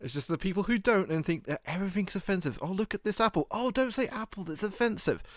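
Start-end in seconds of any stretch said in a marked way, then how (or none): 2.6-5.2 mock offended snowflake. Mocking easily offended people.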